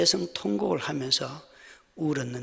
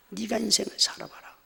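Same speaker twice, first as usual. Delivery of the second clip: bitter retort, higher; 4 semitones higher, 4 dB quieter than usual. Retold or imitated. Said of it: "한편의 마음은요".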